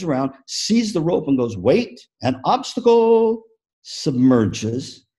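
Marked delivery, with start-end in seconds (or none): 1.6-3.4 high, slow, startled whale voice; Shamu surprised. Acted. Speaker voices Shamu for teachers, high and startled. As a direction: stop short at the obstacle.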